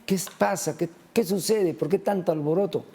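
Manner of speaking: retold cry. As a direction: call out urgent questions, only half shouted. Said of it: "s-, escucha y grita".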